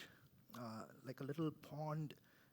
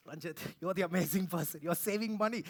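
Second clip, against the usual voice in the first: much louder, bursting with self-praise; proud self-talk; 2 semitones higher, 11 dB louder than usual. Retold or imitated. Praising himself over a green Excel sheet, loud. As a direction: cheer yourself on. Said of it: "I'm like".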